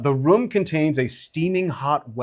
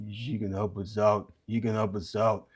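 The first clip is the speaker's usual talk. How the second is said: Pum echoing; 4 semitones lower, 7 dB quieter than usual. Acted. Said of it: "Pum goes".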